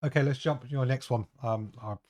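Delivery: strained sore-throat voice. Real, not acted. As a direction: speak through a sore throat. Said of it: "not sure how long my throat can hold out".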